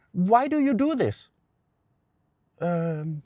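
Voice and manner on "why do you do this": high, loud mock protest; acted-out exasperated patient; imitating exasperated patient. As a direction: push the question up high in complaint. Patient protests to therapist, retold.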